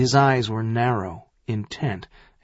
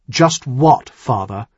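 pointed demand, raised at the start; 5 dB louder than usual. Acted. Son-in-law presses the earl to go on, demanding. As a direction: press him to finish. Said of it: "he demanded".

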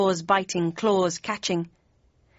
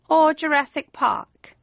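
high-pitched cat voice; querying cat; 7 semitones higher, 4 dB louder than usual. A narrator's reading. Cheshire Cat querying Kane's dinosaur, high-voiced. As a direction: put the second option high.

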